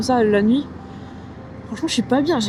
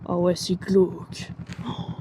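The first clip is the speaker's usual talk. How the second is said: creeped out; 5 semitones lower, 8 dB quieter, slower than usual. Real, not acted. Passing a cemetery at night.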